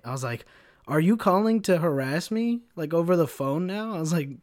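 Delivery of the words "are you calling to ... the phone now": higher, louder disbelief; snapping at the harassing caller, higher and louder; incredulous retort. Retold or imitated. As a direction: demand why he's calling again. Retold phone quarrel with customer.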